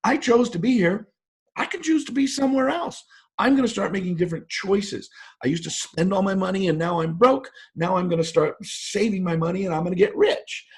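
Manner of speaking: a lightly acted eager inner voice; upbeat inner voice. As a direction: voice the sudden hopeful realization. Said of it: "becomes the good news that".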